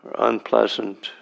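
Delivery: measured meditation guidance with long silences; unhurried phrases, spaced out for meditators to follow; guided meditation. Real, not acted. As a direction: lead a sitting gently, leaving long pauses between phrases. Leads a guided sitting meditation.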